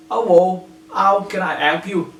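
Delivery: hint of a London Cockney accent. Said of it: "he is speaking with Cockney accent".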